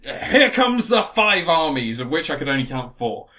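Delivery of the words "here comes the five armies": slow, drawn-out mock fanfare; hammed-up trailer-style reveal; mock-grand announcement. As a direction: herald it slowly, with tongue in cheek. Grandly announcing the big battle.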